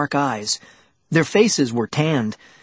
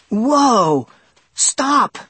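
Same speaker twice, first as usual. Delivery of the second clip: alarmed; 8 semitones higher than usual. A narrator's reading. Sudden halt at a snake.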